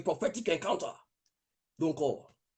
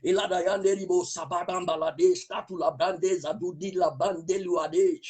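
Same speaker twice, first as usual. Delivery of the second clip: speaking in tongues. Real, not acted. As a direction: pour out the tongues in prayer. Praying in tongues.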